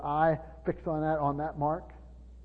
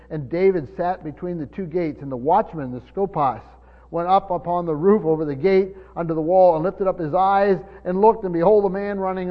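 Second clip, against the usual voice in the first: louder, building to a ringing peak on behold; forceful scripture reading; 8 dB louder than usual. Real, not acted. Preacher reading the watchman verse aloud, forceful. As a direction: proclaim the verse to the whole church.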